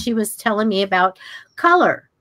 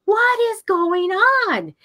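embarrassed bewilderment; 11 semitones higher than usual. Retold or imitated. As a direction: replay being mortified and totally baffled. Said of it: "I was so embarrassed".

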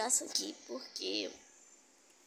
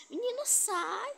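slow, much higher cry to get out; shooing; 11 semitones higher, 4 dB louder, slower than usual. Real, not acted. Telling a boy to leave, slow high shooing cry.

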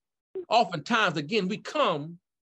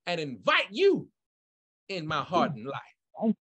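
phrase-by-phrase prayer with pauses to repeat; slow led prayer. Shown as a demonstration. Pastor leads newcomers in sinner's prayer, slowly. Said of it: "I'm gonna say them slowly with you".

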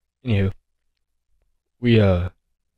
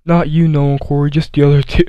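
a hint of a snotty girl tossing an insult; mocking girl voice; 5 semitones higher, 4 dB louder than usual. Same girl sparing two friends.

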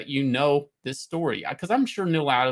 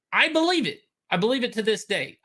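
fervent belief; 6 semitones higher, faster than usual. Real, not acted. Passionate rant about comics.

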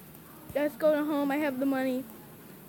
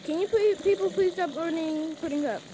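exasperated plea; 3 semitones higher than usual. Real, not acted. Player begging game customers to stop ordering, exasperated plea. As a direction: plead with them, fed up.

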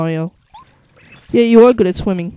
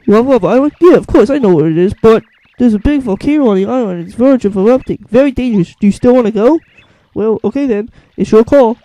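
lightly voiced whale; 7 dB louder than usual. Voicing whale warning.

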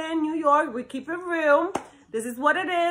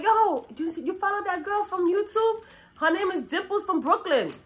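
higher-pitched pretend fan spreading the word; imagined fan; 6 semitones higher than usual. Imagined fan asking a friend about her YouTube channel, hyped. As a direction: play a street-talking Brooklyn fan. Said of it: "I just wanna be like".

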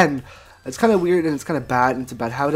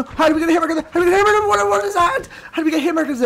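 incredulous; 12 semitones higher, much faster than usual. Real, not acted. Shocked by a long hit.

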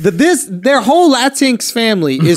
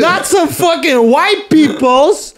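laughing; 7 semitones higher, slower than usual. Real, not acted. Laughing roast.

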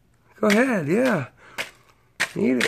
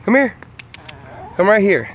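calling the hens; 7 semitones higher than usual. Real, not acted. Calling chickens over.

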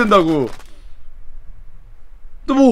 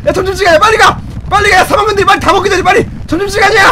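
lunchtime yell; 5 semitones higher, much faster than usual. Pretend. Schoolboy urges classmates to run to lunch, urgent fast shouting. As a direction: hurry the kids before the seniors eat. Kids rushing like lunch bell.

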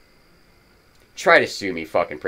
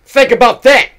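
a much higher, louder furious shout; angry shout; 9 semitones higher, 9 dB louder than usual. Real, not acted. Ranting vlogger shouts at viewers to think, furious. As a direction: yell it at them to make them think.

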